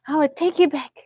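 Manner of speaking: mock threat, half laughing. Mother repeating Walmart threat to Marnie: loud laughing threat. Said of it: "I said".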